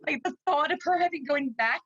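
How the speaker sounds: fighting back real tears while speaking; tearful. Real, not acted. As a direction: voice close to tears, slightly slowed. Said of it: "I'm crying 'cause I'm just so emotional".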